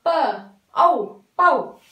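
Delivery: teacher blends प and औ into पौ; sound blending. Shown as a demonstration. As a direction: build पौ slowly from प and औ. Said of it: "कहाँ पे प्रोनाउंस कर रहे हैं".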